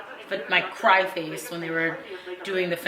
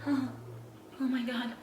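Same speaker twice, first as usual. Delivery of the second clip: breathless awe; 6 semitones higher, 11 dB quieter than usual. Retold or imitated. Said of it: "And I was just like".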